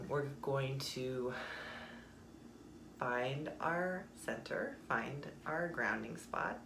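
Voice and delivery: slow, softened meditation voice; guided meditation. Acted. Guiding listeners to find their center, slow meditation voice. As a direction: ease them slowly into stillness.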